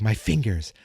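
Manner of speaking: slow solemn kung fu voice; martial arts master. Retold or imitated. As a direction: intone it like a sensei. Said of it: "He's like".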